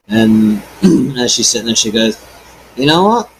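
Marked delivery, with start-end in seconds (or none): 2.8-3.3 taunting prisoner. Acted.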